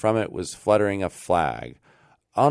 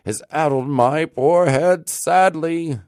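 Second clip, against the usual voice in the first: put-on higher and louder, a dazed old man musing; Rip's bewildered thought; 9 semitones higher, 6 dB louder than usual. Rip doubting himself aloud, befuddled and higher. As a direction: voice Rip puzzling over last night's flagon. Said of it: "thought he".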